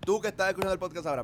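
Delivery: talking while chewing; words round a bite of food; mouth full. Real, not acted. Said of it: "perdón, que estoy comiendo".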